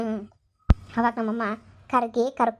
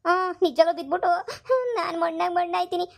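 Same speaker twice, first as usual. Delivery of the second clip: tearful threat; 3 semitones higher than usual. Acted. Daughter threatens her mother with suicide, crying. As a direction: voice breaking into a sob as she threatens.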